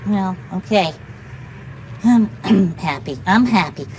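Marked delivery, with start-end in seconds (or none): 2.0-3.9 low, unconvinced attempt at happiness; half-hearted happy. Told to make believe for the dog, half-hearted happy. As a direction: try being happy without conviction. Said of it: "Make believe you're happy".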